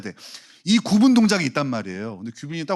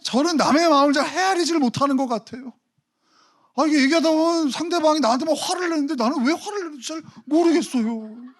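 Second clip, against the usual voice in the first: much higher, hammed-up baffled voice; imitating deaconess; 13 semitones higher, 3 dB louder than usual. Deaconess puzzled to the pastor, higher and hammed up. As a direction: squeak it out, genuinely puzzled. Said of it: "저한테 그러세요".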